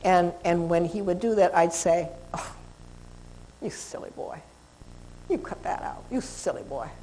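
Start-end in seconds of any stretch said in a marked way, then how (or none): 2.3-6.9 soft, low and breathy, almost whispered; calm the teen dog down with a hushed low tone. Shown as a demonstration. Trainer settling a growling dog with a hushed low voice. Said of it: "I use a low voice".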